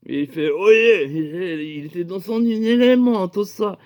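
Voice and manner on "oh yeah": mock medieval cry, higher and louder; short punchy call; medieval character. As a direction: hail them like a hammed-up old-time rogue. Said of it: "t'es moyenâgeux".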